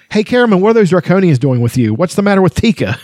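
high, squeaky kender asking in disgust. Acted. Kender waking to a nasty taste, high disgusted voice. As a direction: spit it out like a puzzled, grossed-out little kender. Tas calls to Caramon.

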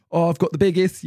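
posh newspaper seller. Acted. Friend imagining someone selling the newspaper, hammed-up posh. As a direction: call it out with "issue" as iss-yoo. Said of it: "trying to sell the newspaper".

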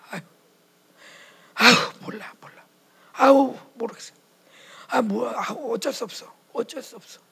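helpless resignation. Retold or imitated. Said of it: "무기력한 사람이 있어요".

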